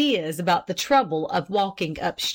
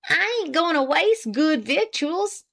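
with decision; 9 semitones higher than usual. A narrator's reading. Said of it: "with decision".

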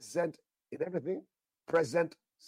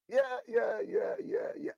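ecstatic shouting. Real, not acted. Preacher overwhelmed by the promise, ecstatic shouted yeahs. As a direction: shout it out in pure joy.

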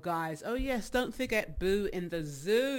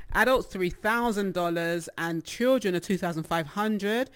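adults, three thousand dollars, read again louder and clearly; louder careful reread; 6 dB louder than usual. Real, not acted. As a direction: restate the price louder and firmer. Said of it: "I'm really not reading this good".

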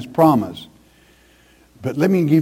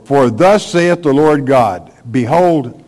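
louder, emphatic preacher's Bible reading; forceful scripture reading; 5 dB louder than usual. Acted. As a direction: proclaim the verse from the pulpit. Reads scripture aloud forcefully.

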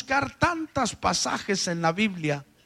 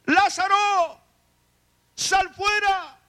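shouted command; 12 semitones higher, much slower than usual. Acted. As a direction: call him out of the tomb with full force. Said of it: "y le gritó".

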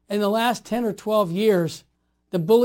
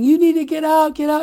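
retold yelling; 6 semitones higher, 5 dB louder than usual. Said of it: "starts screaming at me".

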